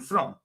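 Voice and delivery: "from" in full with final m; English "from". Shown as a demonstration. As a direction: show the English form "from". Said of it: "An English person would say".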